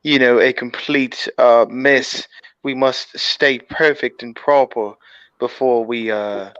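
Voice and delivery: lightly voiced comic spy impersonation; Austin Powers. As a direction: put on a mock-British secret agent voice. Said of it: "you did Mike Myers' fucking voiceover".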